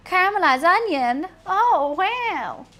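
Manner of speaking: gasping delight at a hidden onion; mock surprise. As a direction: play the amazed taster, rising loud. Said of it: "you'll be like".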